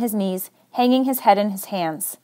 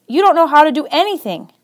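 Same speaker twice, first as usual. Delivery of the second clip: higher, pushed yell with "don't" hit hard; 5 semitones higher than usual. Acted. Secret yells in Chris's face, lightly raised. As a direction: throw it in his face, leaning on "don't". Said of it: "I yell in his face".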